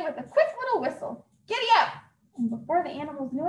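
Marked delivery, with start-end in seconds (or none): 1.5-1.9 calling out. Acted. Santa urges the animals off.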